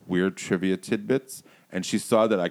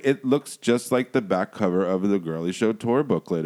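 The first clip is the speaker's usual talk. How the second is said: repeating it louder so she hears; louder clear repeat for someone who didn't catch it; louder, slower repeat; 3 semitones higher, 6 dB louder than usual. Retold or imitated. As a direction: spell it out again, louder.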